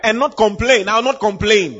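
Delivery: "not" hit loud and high; emphatic declaration. Shown as a demonstration. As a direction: proclaim it loudly, stressing "not".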